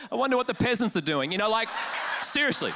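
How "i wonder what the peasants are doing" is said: mock-haughty chuckle, then musing; hammed-up smug superiority; self-righteous snob. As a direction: look down on the common folk. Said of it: "instantly I felt self-righteous".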